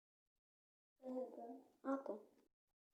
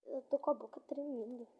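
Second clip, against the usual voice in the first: shivering, teeth chattering. Real, not acted. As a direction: chatter through the cold. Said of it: "tô tremendo ainda".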